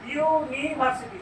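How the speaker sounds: slow "ইউনিভার্সিটি", opening on a clear "yu" sound; pronunciation demo. Shown as a demonstration. Teacher shows students how the word sounds, slow "ইউনিভার্সিটি" with clear "yu" onset. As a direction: draw out "ইউনিভার্সিটি" to show its "yu" onset. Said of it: "কি রকম উচ্চারণ করছি".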